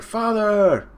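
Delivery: high, loud mock child cry; imitated children's shout; calling out. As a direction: call out like a kid to a parent. Children call out to father.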